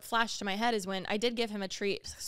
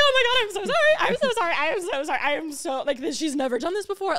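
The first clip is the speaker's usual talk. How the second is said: much higher and louder panicked sorry; frantic apology; 7 semitones higher, 10 dB louder than usual. Retold or imitated. Apologizing to Jordan after the bite, loud and frantic.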